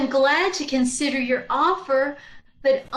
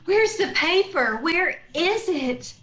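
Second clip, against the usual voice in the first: eager. Acted. Swooning eagerly to buy.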